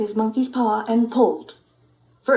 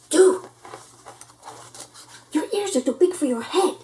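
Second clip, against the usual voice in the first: high excited cry; excited dude; 7 semitones higher than usual. Acted. Pup teasing the Martian, high and excited. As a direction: tease the alien, amazed. Pup addresses alien, amazed.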